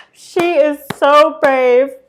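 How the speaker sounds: very slow, high, drawn-out fake blubbering sobs. Acting out a gala crowd weeping over someone's achievement, mock sobbing.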